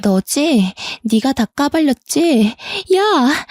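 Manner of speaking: mock yell rising in pitch to a cry of "야"; understated yell. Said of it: "소리를 막 질렀어요". (소리는 키우지 않고 높은 톤으로 따지는 외침)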